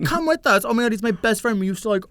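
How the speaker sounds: high, gushing imitated voice; mock enthusiasm. Friend inviting his old pal along, high mock-eager voice. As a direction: mimic an over-keen friend.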